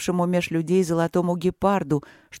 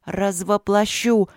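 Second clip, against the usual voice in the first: vibrating bark; 3 semitones higher, slower than usual. Acted. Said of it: "рявкнула Василина вибрирующе".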